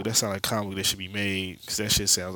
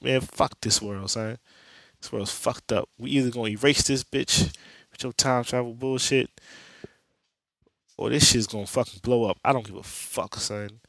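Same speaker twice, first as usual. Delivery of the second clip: mock yelling rant; 3 semitones higher than usual. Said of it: "Why y'all yelling?".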